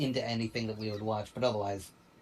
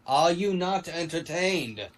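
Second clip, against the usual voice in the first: lightly acted arena challenge, higher and drawn out; slow, raised-pitch movie-quote proclamation; mock Gladiator challenge; 5 semitones higher, 4 dB louder, slower than usual. Host quoting Gladiator to co-hosts after the vote, mock challenge. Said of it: "Gladiator is not here".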